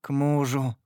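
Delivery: ordinary delivery, nothing marked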